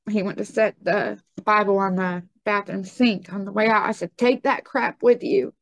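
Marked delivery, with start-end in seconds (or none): 4.2-5.5 higher-pitched, scornful dismissal; retold anger. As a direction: re-enact angrily sending him off. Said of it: "I was infuriated with rage".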